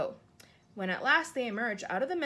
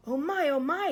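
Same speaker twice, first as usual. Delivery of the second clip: higher, louder gasp of wonder; delighted marvel; 6 semitones higher, 8 dB louder than usual. Acted. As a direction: savour the treasure in his hands. Giant marvels at the dream.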